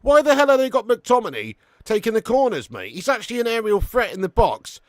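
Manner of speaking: high, loud football-fan outrage; exasperated rant. Real, not acted. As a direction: rant at a useless manager. Rant over corner taker resumes.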